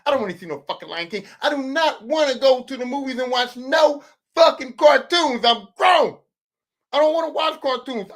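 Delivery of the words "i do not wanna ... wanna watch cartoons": mock indignant yell about cartoons; comic rant. Real, not acted. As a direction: put your foot down, shouting.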